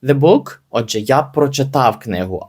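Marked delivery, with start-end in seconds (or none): 0.0-0.6 slow read. Shown as a demonstration. Teacher reads English example.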